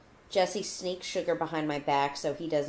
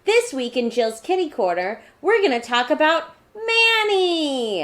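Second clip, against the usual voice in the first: newscaster voice; 10 semitones higher, 8 dB louder than usual. Pretend. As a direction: present it like the evening news. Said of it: "I'm talking like a newscaster".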